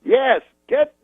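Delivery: high, slow, halting orders; Bill Cosby. Retold or imitated. Cosby instructing his manager, high drawn-out impression. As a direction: deliver instructions in long-stretched fragments. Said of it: "He goes".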